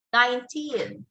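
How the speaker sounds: put-on "nineteen" with stress on teen. Shown as a demonstration. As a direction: lean on the second syllable of "nineteen". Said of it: "you give stress to the word teen".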